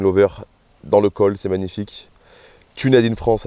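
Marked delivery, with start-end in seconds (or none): 2.7-3.5 English slogan in a French accent. Real, not acted. Vlogger showing the printed label to viewers, French accent. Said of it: "avec un bel accent français".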